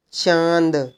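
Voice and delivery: चांद with the vowel through nose and mouth; nasalised vowel. Shown as a demonstration. Teacher showing chandrabindu, चांद with a nasal buzz. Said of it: "नाक और मुंह दोनों से भनभनाहट".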